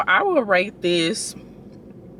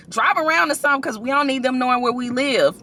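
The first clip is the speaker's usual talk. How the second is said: mom's voice; 5 semitones higher, faster than usual. Retold or imitated. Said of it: "She like".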